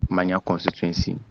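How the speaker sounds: breaking up on a bad line; scrambled voice. Real, not acted. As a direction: voice cutting in and out. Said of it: "Your line is breaking".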